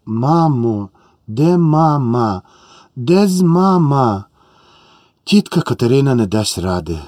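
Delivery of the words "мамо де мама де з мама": put-on slow, drawn-out child's whimper; a little girl sniffling for her mother; plaintive child calling for mama between sobs, slow. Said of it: "Марія хлипала".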